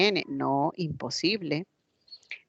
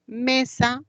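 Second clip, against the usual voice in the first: Mesa slowly split as ME-SA; syllable by syllable; 7 semitones higher than usual. Shown as a demonstration. Teacher counting two syllables, Mesa said slowly in parts. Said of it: "tiene dos sílabas".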